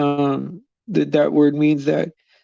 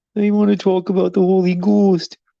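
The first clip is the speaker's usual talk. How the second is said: put-on Wisconsin accent at higher pitch; 4 semitones higher than usual. Trying to imitate the Wisconsin accent just mentioned: attempted Wisconsin accent. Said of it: "I wish I could do the voice".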